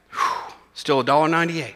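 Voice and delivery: a soft, low, breathy-voiced sigh of relief; mock relieved sigh. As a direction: play it as a light, imitated sigh of relief over the balance. Mock relief at bank balance.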